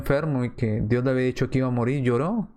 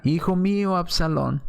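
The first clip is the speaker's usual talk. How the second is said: grieving father's lament; 4 semitones higher than usual. Retold or imitated. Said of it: "yéndose David caminando decía".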